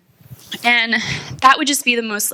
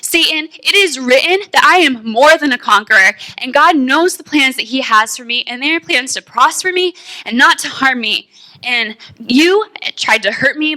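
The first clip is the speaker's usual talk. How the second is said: declaring scripture at Satan; 3 semitones higher than usual. Retold or imitated. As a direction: proclaim it like a battle cry.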